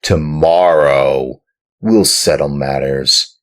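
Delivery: loud, rough, commanding farmer. Acted. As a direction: order the puppet about roughly. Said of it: "said to him roughly".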